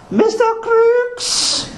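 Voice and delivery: put-on high, drawn-out East Asian accent call. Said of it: "East Asian accent's not very good today".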